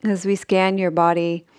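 unhurried sleep-meditation voice with long pauses; measured Yoga Nidra guidance, phrase by phrase; guided meditation. Acted. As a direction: guide them gently into rest, leaving long silences.

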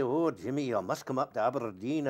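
lightly imitated Aberdeen Scots accent; thick Aberdonian accent. War buddy inviting him up to Aberdeen, imitated Aberdonian accent. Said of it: "it was so thick".

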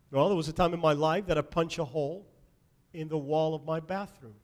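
ordinary talk, nothing marked

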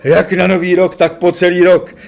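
lightly voiced old gentleman chiming in cheerfully; a hint of the older man agreeing. A narrator's reading. The gentleman answering Ferry's toast, lightly voiced. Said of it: "přizvukoval pán".

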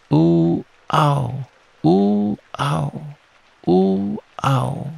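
alternating oohs and ows. A narrator's reading. Piglet bounced all the way to Kanga's house, high oohs and ows. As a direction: squeal up on ooh, drop on ow. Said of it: "And he was saying".

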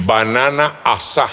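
"asá" stressed on the final a; Papiamento pronunciation. Shown as a demonstration. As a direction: Papiamento "asá", no d, ending on a strong á. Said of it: "escrita como suena, A S A con tilde".

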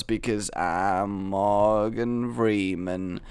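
poor impression of a low-voiced documentary narrator; Morgan Freeman. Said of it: "this is the worst Morgan Freeman impression".

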